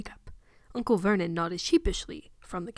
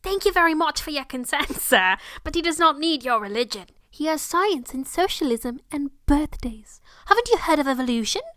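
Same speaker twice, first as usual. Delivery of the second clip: a touch higher, mock-polite syrupy aunt; sickly sweet; 5 semitones higher, 3 dB louder than usual. Aunt dismissing the preacher, lightly voiced sickly sweet tone. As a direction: smile through it with fake sweetness. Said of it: "her voice was sickly sweet".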